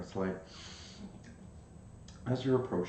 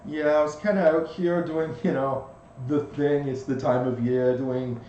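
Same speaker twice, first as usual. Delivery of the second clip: a bit high, louder tiny bug voice; pixie; 3 semitones higher, 6 dB louder than usual. Acted. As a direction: brag about his moves as the little bug. GM voices the ladybug.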